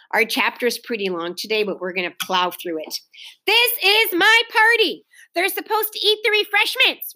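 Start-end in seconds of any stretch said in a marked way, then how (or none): 3.5-7.1 high, loud tantrum howl. A narrator's reading. Hostess kicking on the floor, howling. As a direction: howl it high, hammering out the words. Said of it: "Ramona howled".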